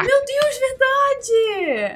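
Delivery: high, excited realization; surprised. Real, not acted. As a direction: shriek it out in surprise. Sudden realization.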